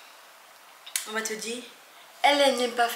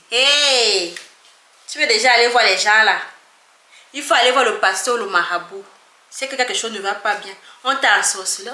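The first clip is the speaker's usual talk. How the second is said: put-on loud, scandalised Cameroonian accent; alarmed Cameroonian parent at full volume; 11 dB louder than usual. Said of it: "Je veux prendre l'accent camerounais".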